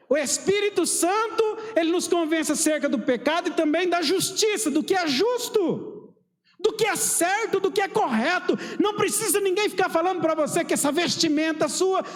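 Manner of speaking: high, sustained pulpit proclamation; full-force preaching. Real, not acted. Preacher proclaiming what is just and right, high and forceful. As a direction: belt out each phrase to the congregation.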